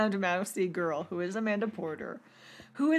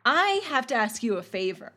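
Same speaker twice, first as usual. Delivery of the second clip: upbeat; 3 semitones higher than usual. Retold or imitated. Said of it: "she's very upbeat".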